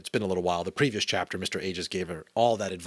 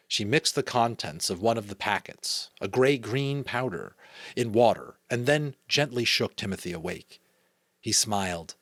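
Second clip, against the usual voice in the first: measured read-aloud storytelling; story narration; 2 semitones higher than usual. A narrator's reading. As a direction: read a children's novel aloud.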